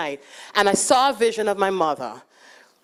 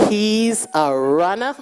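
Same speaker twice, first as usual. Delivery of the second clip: incredulous question; slower than usual. Retold or imitated. Repeating his words in disbelief.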